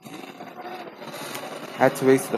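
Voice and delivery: put-on drawled Southern accent, slow; hammy fake Southern drawl; bad Southern accent. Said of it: "I know it's a bad Southern accent".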